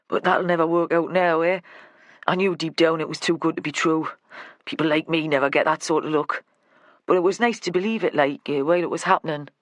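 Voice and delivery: lightly voiced resigned Northern man; a hint of a dejected workman; Lenny, glum local man. Lenny tells Vera his luck never holds, resigned.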